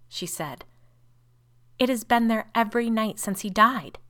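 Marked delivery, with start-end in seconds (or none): 1.8-4.0 high, loud distressed cry. A narrator's reading. Sister reveals the nightly shadow, crying out. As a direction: cry it out, raised and upset. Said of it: "cried Rebecca".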